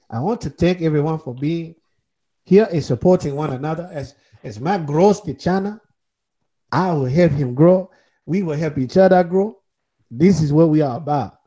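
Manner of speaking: playful put-on African accent. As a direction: lay on an African accent for the thanks. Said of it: "I would like to talk to everyone in this African accent".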